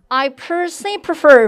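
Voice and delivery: slow model sentence, voice pushed out; teacher's drawn-out, projected demo. Shown as a demonstration. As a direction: project it out through a mask. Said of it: "마스크 밖으로 음성 뽑아볼게요".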